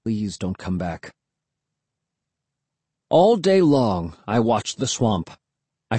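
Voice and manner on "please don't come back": low, hushed inward plea; silent plea. A narrator's reading. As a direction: beg quietly, as if in thought. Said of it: "I pleaded silently".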